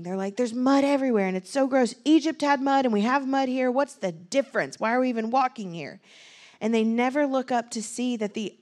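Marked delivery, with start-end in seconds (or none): 0.4-6.0 high whiny grumble, louder; whiny complaining. Retold or imitated. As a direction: whine about the mud like a grumbling child. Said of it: "And they're complaining".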